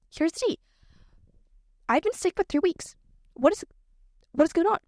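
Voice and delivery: high, theatrical complaint; dramatic high voice. Real, not acted. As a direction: act it out like juicy gossip. Dramatic announcement of illness.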